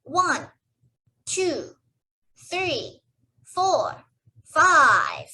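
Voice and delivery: put-on slow, rising count for kids; teaching a child to count. Shown as a demonstration. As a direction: count each number out, building up. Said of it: "Can you count with me?".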